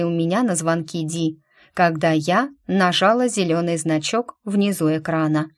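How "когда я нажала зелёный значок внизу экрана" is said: plain reading voice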